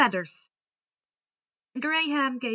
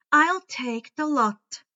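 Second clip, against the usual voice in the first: grudging; 4 semitones higher, 6 dB louder, slower than usual. A narrator's reading. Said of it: "grumbled with a sigh".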